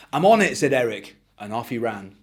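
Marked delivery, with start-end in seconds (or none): 0.1-0.6 put-on bright, high, bouncy kid voice; excited child. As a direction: gush like a thrilled little boy. Eric eager to go.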